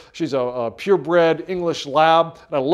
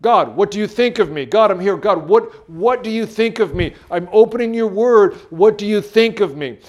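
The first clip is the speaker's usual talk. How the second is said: a touch of pleading, louder; pleading prayer; 3 semitones higher, 3 dB louder than usual. Shown as a demonstration. Believer pleading before God with an open Bible, rising. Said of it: "That's the question".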